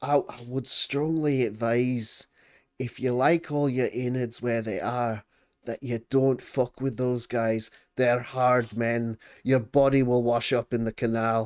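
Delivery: very hushed voice. Playing a character warning someone about the Daggers gang, hushed. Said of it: "really trying to keep it very hush".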